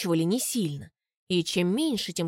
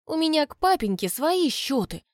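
higher, spiteful grudge; angry; 7 semitones higher than usual. A narrator's reading. The girl vents about her father, angry. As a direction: spit out the grudge. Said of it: "зло говорю".

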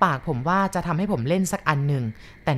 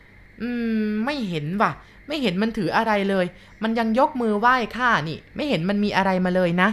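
put-on old grandma; 4 semitones higher than usual. Grandma tells the boy plainly, in an old woman's voice. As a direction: answer like an old countrywoman.

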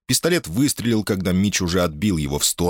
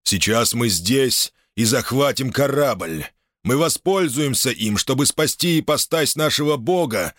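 booming fanatic; 6 semitones higher than usual. Acted. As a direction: proclaim it like a holy decree. Fanatic proclaims the ship's capture.

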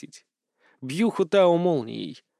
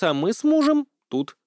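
"мужем" pointedly stressed, higher; 8 semitones higher than usual. Acted. Wife claims her husband, stressing "мужем". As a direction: lean hard on "мужем". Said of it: "Ольча голосом подчеркнула слово «муж»".

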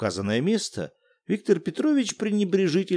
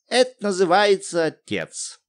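higher, theatrical outrage; pathetic exclamation; 6 semitones higher than usual. Acted. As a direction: play the wronged wife grandly. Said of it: "патетически воскликнула". (патетически, с упрёком)

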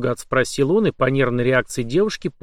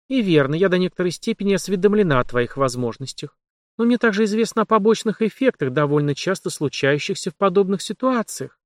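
higher, lightly voiced heroine; young woman voice; 6 semitones higher than usual. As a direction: voice the journalist, higher. Heroine explains.

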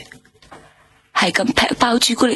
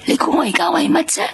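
higher, crying shout at the police; hurt and indignant, voice cracking into tears; tearful outburst; 5 semitones higher than usual. Acted. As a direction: break into a wounded, tearful protest. Stabbed witness bursts out at police.

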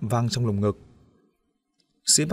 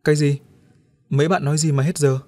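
louder, higher bewildered ask; puzzled question; 3 semitones higher, 4 dB louder than usual. Acted. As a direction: ask in confusion. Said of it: "ngơ ngác hỏi lại". (ngơ ngác hỏi)

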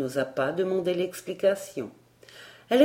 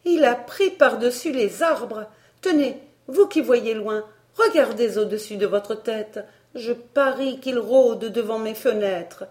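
higher, louder, agitated warning; anxious; 5 semitones higher, 5 dB louder than usual. A narrator's reading. Miss Barbara urging Elsie to look up, anguished. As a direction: urge her to look, in alarm. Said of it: "dit miss Barbara avec angoisse".

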